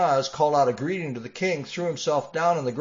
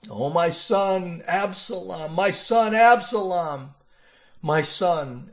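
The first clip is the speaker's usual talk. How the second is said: grieving cry; 4 semitones higher, 3 dB louder than usual. Acted. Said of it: "he cried".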